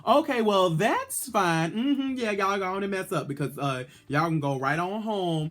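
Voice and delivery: high, sassy taunting at the other queens; shady queen. Retold or imitated. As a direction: tease them as they mess up, then shoo them home. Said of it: "I would've looked around and be like".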